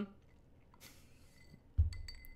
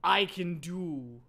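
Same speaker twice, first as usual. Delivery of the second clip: pausing for ellipses; 2 semitones lower than usual. Acted. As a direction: stretch it out, halting between phrases. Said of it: "that's why I'm pausing".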